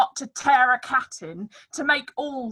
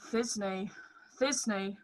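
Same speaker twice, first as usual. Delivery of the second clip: monstrous little voice; 3 semitones lower, 9 dB quieter than usual. Acted. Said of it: "I'll speak in a monstrous little voice".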